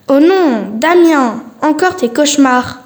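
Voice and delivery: put-on a mother rushing to her child; worried mother. Mother woken at night cries out to Damien, alarmed.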